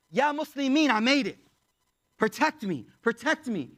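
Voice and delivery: acted appeal for help; urgent plea. Escapee begging for protection, retold.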